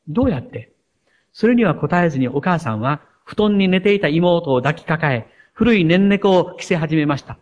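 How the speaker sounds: a touching essay read aloud to the congregation; preacher reading a girl's essay about her mother to the church, gently moved. Acted. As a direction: read it like a child's heartfelt letter. Reads a child's essay aloud.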